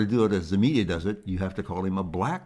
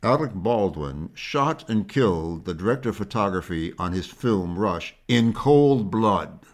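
mock news spin. Shown as a demonstration. Host showing how media twists a shooting, mock sensational news voice. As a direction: make it sound like a cold-blooded crime. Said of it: "it would sound like this".

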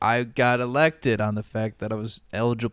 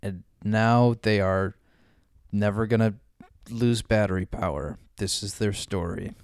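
movie trailer narrator. Acted. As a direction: announce the epic tale.

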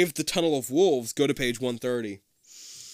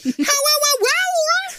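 slow, very high, louder screech howl; wolf howl; 10 dB louder, much slower than usual. A narrator's reading.

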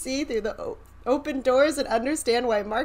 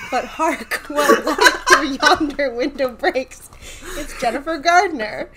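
hammy stage actor; 4 semitones higher, 7 dB louder than usual. Pretend. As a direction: declaim it like a ham actor on stage. Mock Shakespeare announcement.

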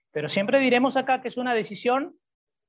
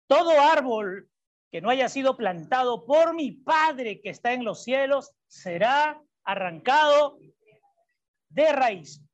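slow, weighty declamation with pauses; emphatic scripture reading; slower than usual. Acted. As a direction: declaim the verse, stretching key words. Reads the verse solemnly. (lectura bíblica enfática y pausada)

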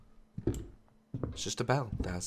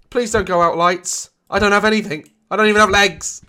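nervous pleading; 10 semitones higher, 7 dB louder than usual. Real, not acted. Pleading with the lights.

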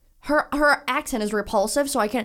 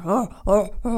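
manly moans. Retold or imitated. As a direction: imitate a woman moaning in a mannish voice. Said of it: "she sounds like a man".

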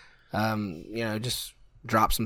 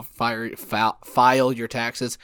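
stumbling over words; much slower than usual. Real, not acted. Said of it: "That took me way too long to say".

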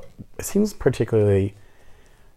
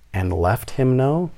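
slow, higher rising "left him know", disbelieving; incredulous echo; 5 semitones higher, slower than usual. Retold or imitated. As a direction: repeat "And left him know" with a stunned upward question. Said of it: "What the heck does that mean?".

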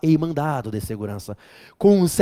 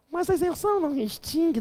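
voz aguda e fina de aluno teimoso; aluno imaginário; 12 semitones higher, 4 dB quieter than usual. Pretend. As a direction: imite um aluno insistente, bem agudo. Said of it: "Não, não extingue". (aluno teimoso ao professor, voz aguda)

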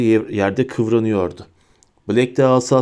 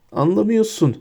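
high, whimpering whine; whining; 9 semitones higher than usual. A narrator's reading. Pettigrew whines to Sirius, high and whimpering. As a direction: whine it like a cornered rat. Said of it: "diye sızlandı Pettigrew".

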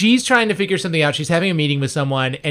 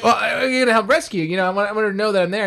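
eager rambling; 5 semitones higher, faster than usual. Retold or imitated. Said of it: "And he's like".

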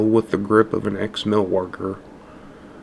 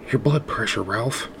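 pleading; 2 semitones higher than usual. Acted. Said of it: "Nora pleaded".

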